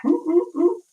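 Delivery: high excited oohs. Real, not acted. Greeting viewer Stephanie in chat, high delighted oohs.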